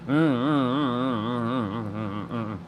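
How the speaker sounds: humming while chewing slowly; chewing sounds. Shown as a demonstration. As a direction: chew with closed mouth, humming. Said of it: "taking forever to eat your food like this".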